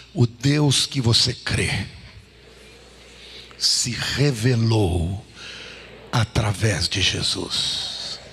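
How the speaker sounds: low, drawn-out words with weighty pauses; slow solemn declaration. Real, not acted. Preacher feeding the congregation a line to repeat, slow and solemn. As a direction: stretch each phrase slowly, low in pitch.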